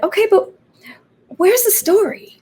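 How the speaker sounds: high mock voice of the dramaturg; quoting Keith. Playwright mimics her dramaturg pushing her, high and light.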